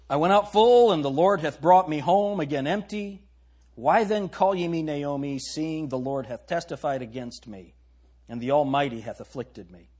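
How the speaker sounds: emphatic scripture reading. Acted. Rereads Naomi's lament with force.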